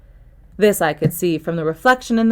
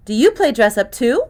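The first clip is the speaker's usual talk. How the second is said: put-on dry, cynical jab in a girl's voice; sarcastic; 5 semitones higher than usual. Girl mocking the detective's grubby costume, sarcastic. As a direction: needle him with mock innocence. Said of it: "It dripped of sarcasm".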